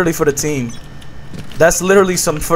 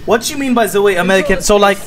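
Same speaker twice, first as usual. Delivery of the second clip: put-on halting broken English in a thick foreign accent; 2 semitones higher than usual.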